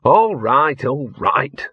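weary resigned little dog; sighing Gaspode. Acted. Gaspode giving in to Laddie, mildly sighing. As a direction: give in with a sigh. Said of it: "sighed Gaspode".

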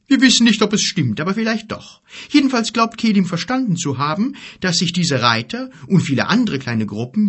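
giant's voice. Acted. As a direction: play the worried giant. Gork explains the rumour.

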